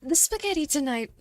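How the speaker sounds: spaghetti tonight in an American accent, spaghetti with a flapped t; slipping into an American accent; slipped into American. Shown as a demonstration. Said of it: "I just fully slipped back into American for tonight".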